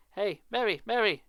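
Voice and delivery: high, loud call across the garden. Acted. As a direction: shout for his wife from afar. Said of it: "started calling to his wife".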